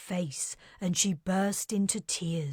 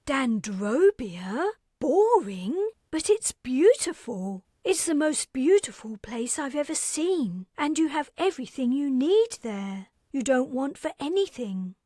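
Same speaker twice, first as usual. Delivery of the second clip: put-on higher, brisk young woman's voice; bright, businesslike young woman reminding her guest; Carrie's voice; 7 semitones higher, 6 dB louder than usual. Carrie telling Aparte she leaves tomorrow, higher young voice.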